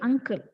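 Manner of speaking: "uncle" with a crisp unvoiced k sound; correct pronunciation. Shown as a demonstration. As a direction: say "uncle" with a clear k after the nasal. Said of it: "the wrong pronunciation is angle".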